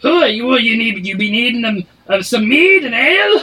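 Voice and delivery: high, loud barking tavern keeper; a barkeep shouting from behind the bar; dwarf barkeep. Acted. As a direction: bark orders at the kitchen staff. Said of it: "His voice does not match his description".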